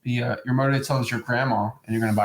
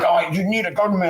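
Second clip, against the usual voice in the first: pushy salesperson; 3 semitones higher than usual. Retold or imitated. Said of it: "And it's not like".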